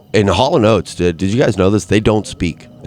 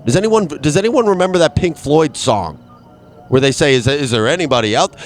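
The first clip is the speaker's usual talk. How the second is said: calling into the void; 6 semitones higher than usual. Pretend. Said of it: "I'm speaking out into the void, and I'm saying".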